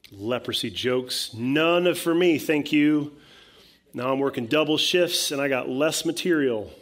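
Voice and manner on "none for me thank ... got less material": loud, higher-pitched mock griping; acted fed-up complaint; complaining. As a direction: grumble sarcastically at the leader who caused the trouble. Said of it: "so Israel is complaining".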